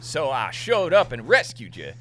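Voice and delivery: high, loud mock English lady accent; loud, high posh English accent; hammed-up English lady. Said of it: "That voice".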